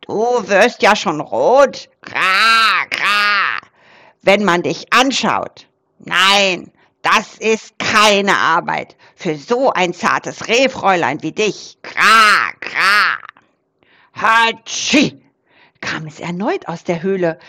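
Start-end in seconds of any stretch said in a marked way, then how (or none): 0.0-13.2 raven teasing. Acted. Raven teases shy doe. 14.1-15.2 sneeze. Acted. Sneeze from the cave.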